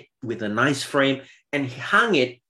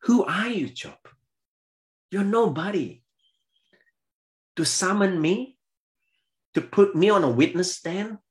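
God rebuking; 7 semitones higher than usual. Acted. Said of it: "by asking him indirectly".

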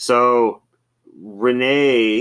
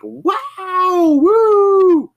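loud, high macho whoop; jovial yelling; 8 dB louder than usual. Retold or imitated. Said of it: "like, jovial ye-, yelling, like".

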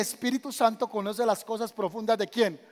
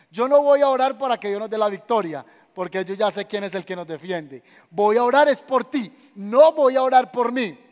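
forceful declaration; 6 dB louder than usual. Acted. Eliseo declara con fuerza.

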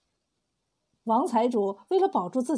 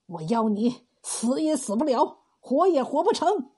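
through gritted teeth. Acted. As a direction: spit out the curse with hatred. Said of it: "王财主咬牙切齿地说".

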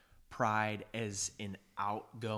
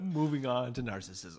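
laughing; 3 semitones higher, 5 dB louder than usual. Real, not acted. Trying to continue while laughing.

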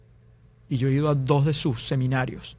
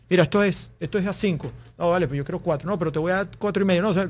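quick back-and-forth haggle, slightly raised pitch; mock haggling; 3 semitones higher, faster than usual. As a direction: lightly act out both sides of a bargain. Acts out a quick price haggle.

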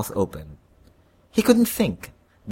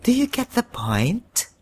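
Sharon Cuneta; 10 semitones higher than usual. A narrator's reading. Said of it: "Sharon Cuneta asked him".

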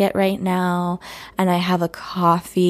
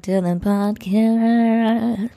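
slow breathy whispered welcome; whispering; slower than usual. Pretend. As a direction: hush it like a secret intro. Podcast intro, playful hushed opening.

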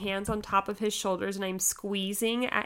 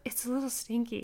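sheepish excuse; 3 semitones higher, 6 dB quieter than usual. Retold or imitated.

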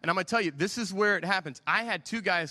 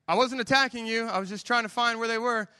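higher, louder indignant denial; defensive protest; 6 semitones higher, 5 dB louder than usual. Retold or imitated. Husband protests to his wife that he was not attacking, higher and louder. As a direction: defend yourself hotly.

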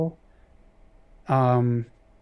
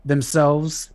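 wrestling promo. Pretend. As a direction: bark it like a ring announcer. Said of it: "So we are going to cut a promo".

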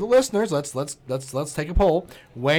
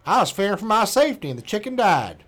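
mock Florida man accent, pitched higher; 5 semitones higher than usual. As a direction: keep reading his words in a put-on Florida man accent. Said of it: "his accent".

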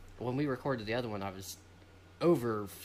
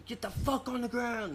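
imitating a game cop; 12 semitones higher than usual. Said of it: "and you know".

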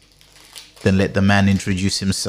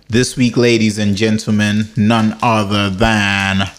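hype announcer; 3 semitones lower, slower than usual. Acted. Hypes guest intro.

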